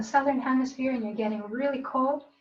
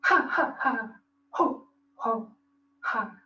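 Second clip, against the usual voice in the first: belly laugh; slower than usual. Shown as a demonstration. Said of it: "Good belly laugh".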